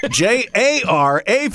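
slow spelling through a laugh; laughing at own mistake, spelling slowly; laughing while spelling. Real, not acted. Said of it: "That's not correct".

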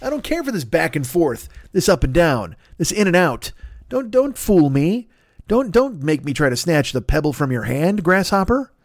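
high, hammed-up indignant complaint; a high, mock-offended rant at the host; mock indignation. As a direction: act betrayed and scold him. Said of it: "which I'm like".

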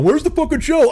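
mock shouting fan. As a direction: yell it like an outraged listener, hammed up. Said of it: "a fucking letter from somebody going".

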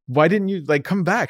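high, baffled questioning; incredulous plea. Retold or imitated. Retelling his call to the girl, incredulous. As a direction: ask pitched well up, in disbelief.

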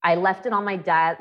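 ordinary delivery

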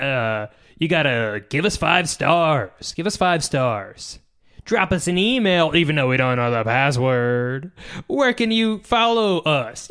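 a hammed-up co-host signing off the show, a hint of Sam; Sam impression. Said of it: "That's my Sam impression".

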